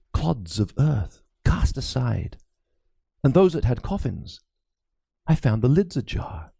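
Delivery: lightly voiced anxious old priest; a worried cleric confiding a ghost story; frightened priest. Priest confides his fears to Crispin, lightly voiced and uneasy.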